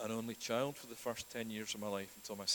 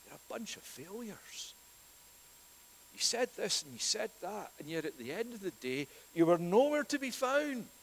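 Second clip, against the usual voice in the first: rising to a loud, high scolding; imagined scolding of failed disciples, growing louder; castigating rebuke; 9 semitones higher, 6 dB louder than usual. Pretend. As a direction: pile on the blame until it bursts out. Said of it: "castigate them, to say".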